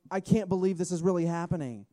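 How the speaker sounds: mildly voiced overjoyed old father; delighted father. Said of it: "screams with delight".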